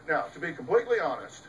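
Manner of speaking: rushed x1.6 throwaway; rattled-off fake candor; quick mock confession. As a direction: toss it off fast, like a liar's preface. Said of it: "they say".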